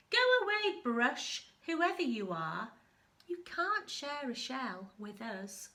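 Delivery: sharp shouted shoo at the stranger; shooing cross. Acted. Crab and anemone shooing the bristleworm off, cross. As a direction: go away, brush.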